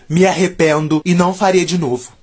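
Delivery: mock sincere apology; fake remorse. Shown as a demonstration. Vlogger pretending to regret the prank, mock sincere. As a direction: pretend to be sorry. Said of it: "Me arrependo nada".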